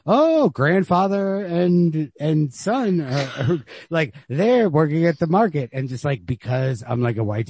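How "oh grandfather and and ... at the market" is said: higher, slow, mock-naive tone; naive acceptance. White reader accepting the market scene, mock naive. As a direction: play the clueless reader shrugging along. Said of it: "I'm just like".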